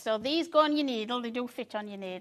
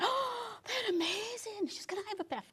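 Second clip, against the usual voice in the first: Sandy's voice; 12 semitones higher, 6 dB quieter than usual. Retold or imitated. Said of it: "She went".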